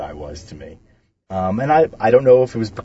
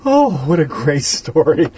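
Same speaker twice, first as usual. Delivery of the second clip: delighted; 6 semitones higher, 4 dB louder, slower than usual. Real, not acted. Host reacting to story.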